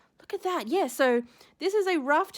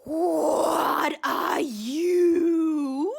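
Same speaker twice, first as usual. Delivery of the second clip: drawn-out, slow cry of amazement; stunned cry; much slower than usual. Real, not acted. Unboxing a shell from Ruth, stunned slow cry. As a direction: gasp the question out in wonder.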